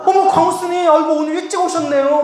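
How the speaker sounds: high-pitched, fussing greeting; effusive welcome. Acted. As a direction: gush over an honoured guest. Staff member welcomes the monk. (호들갑스럽게 반기는 높은 목소리)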